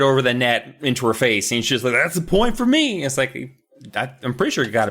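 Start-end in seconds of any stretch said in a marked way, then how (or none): 1.9-3.0 mock kid sister voice, pitched higher; a hammed-up little sister claiming the point; smug sister. Sister to brother at ping pong, smug mock voice.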